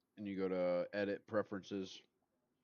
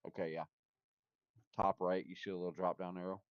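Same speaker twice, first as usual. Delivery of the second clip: talking with food in mouth; words round a bite of food; chewing while talking; 5 dB louder than usual. Real, not acted. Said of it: "I'm chewing".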